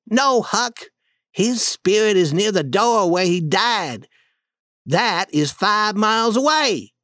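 put-on boy Tom, calming his scared friend; Tom reassuring. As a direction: Tom talking Huck out of his fear. Tom calms frightened Huck.

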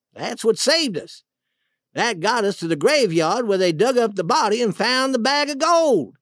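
understated acted reproach; accusing. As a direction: lay the blame squarely on them. Duke blames the king.

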